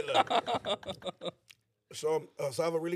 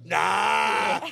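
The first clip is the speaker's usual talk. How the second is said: mock shouted refusal; 6 dB louder than usual. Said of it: "the homie Rudy's like".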